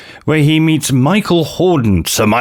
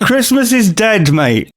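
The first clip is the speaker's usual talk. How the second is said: loud declaration; 10 semitones higher than usual. Acted. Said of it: "at the top of your voice".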